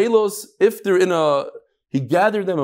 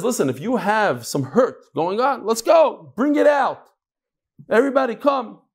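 raised pitch, urging the mourners on; rallying hired eulogist; 6 semitones higher than usual. Acted. Eulogist to mourners with hurt going on, high rallying call. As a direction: call them in to let the hurt out. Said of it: "the maspid says".

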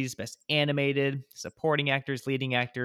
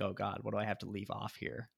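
quiet inner voice; 2 semitones lower, 11 dB quieter, faster than usual. Retold or imitated. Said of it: "and it's like".

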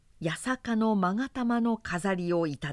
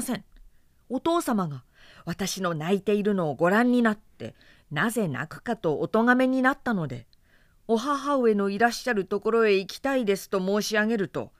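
pleading excuse; 2 semitones higher, 4 dB louder than usual. Acted. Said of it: "お言い訳をなさいました".

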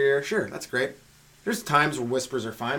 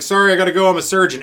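loud, higher-pitched announcement; out loud, no whisper; 4 semitones higher, 8 dB louder, faster than usual. Acted. Surgeon excusing himself to the movie theater, out loud. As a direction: announce it openly to the whole room. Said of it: "You don't even have to whisper".

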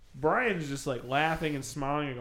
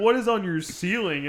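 raised, higher, mock alarmed question; mock inspector; 5 semitones higher, 4 dB louder than usual. Imitating the room inspector to podcast friends, mock alarmed. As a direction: play the shocked inspector.

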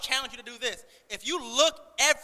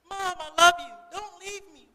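high imitated toddler plea; pleading little girl; 7 semitones higher, 3 dB louder, much slower than usual. Toddler to her mom who is leaving, imitated pleading. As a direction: beg mom in a high, drawn-out child voice. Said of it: "there was a little girl".

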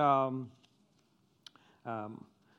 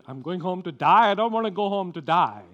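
loud, higher, alarmed protest; mock alarm; 4 semitones higher, 11 dB louder, faster than usual. Patient misunderstanding the surgeon, alarmed protest. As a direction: blurt it out in mock dismay.

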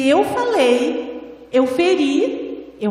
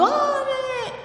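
much higher, sing-song scold to a dog; a playful fake telling-off, pitched way up; sweet high-pitched scolding; 11 semitones higher than usual. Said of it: "Se você briga com ele falando".

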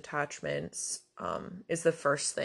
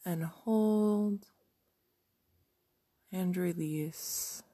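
guided meditation. Acted. Guided meditation, breathing then visualization.

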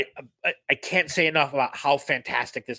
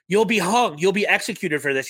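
Hans Landa impression; 6 semitones higher, 4 dB louder than usual. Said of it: "and Hans like".

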